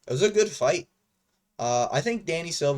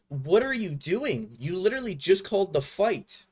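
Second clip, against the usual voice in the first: higher-pitched, exasperated challenge to the referee; incredulous protest; 5 semitones higher than usual. Acted. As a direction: call out the ref in disbelief. Indignantly addressing the absent referee.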